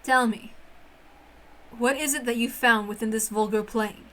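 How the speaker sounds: low, haughty witch voice disdaining human games; a proud witch sneering at childish fun; scornful witch. Acted. Witch Beatrice sneering at human children's games, low and haughty.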